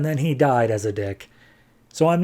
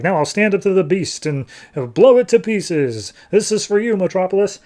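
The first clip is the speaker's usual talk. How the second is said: higher, louder grandstanding hero; lightly hammed-up hero speech; mock heroic; 5 semitones higher, 3 dB louder than usual. TV host vowing to face the monster, mock heroic.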